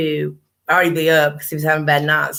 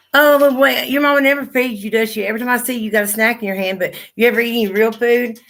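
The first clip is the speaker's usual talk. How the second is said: mocking neighbor; 5 semitones higher than usual. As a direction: sneer her fake-concerned question back, pitched up. Mimicking judgmental upstairs neighbor.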